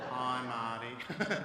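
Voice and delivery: slow, droning group greeting; mock group reply. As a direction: drag out the answer like a whole circle of strangers. Group replies in unison.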